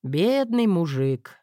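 plain reading voice

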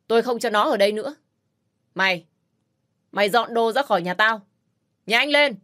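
Loan throws her out of the house; rising angry command; angry demand. Acted.

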